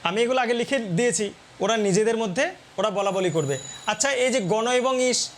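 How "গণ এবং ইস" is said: slow, each part apart: গণ এবং ইস; said separately. Shown as a demonstration. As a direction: pull গণ and ইস apart slowly. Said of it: "এটাকে যদি আমরা আলাদাভাবে বলি".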